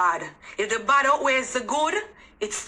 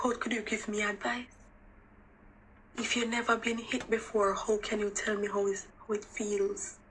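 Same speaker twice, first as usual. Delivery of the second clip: much softer, a quiet wounded challenge; hushed and hurt; 7 dB quieter than usual. Real, not acted. Hurt challenge to those never abused.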